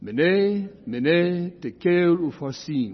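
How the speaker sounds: "Mene" as MEH-neh, "upharsin" as oo-FAR-sin; Aramaic pronunciation. Shown as a demonstration. Correcting the listeners with the right pronunciation. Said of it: "Can you say it with me?".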